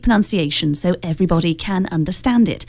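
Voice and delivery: imitation of old British broadcaster's RP; received pronunciation. Shown as a demonstration. Host demonstrating old UK broadcasting standard, in mock received pronunciation. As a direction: put on formal newsreader received pronunciation. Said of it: "what's called received pronunciation".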